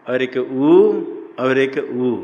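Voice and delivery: each उ held slowly; lengthened vowels. Shown as a demonstration. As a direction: stretch उ out to show its length. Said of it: "दो मात्रा वाला उ". (उ को खींचकर लंबी मात्रा में)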